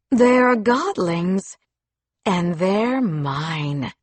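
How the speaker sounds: very slow possessive menace; menacing. Acted. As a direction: drag each word out, threatening. Villain claims captives.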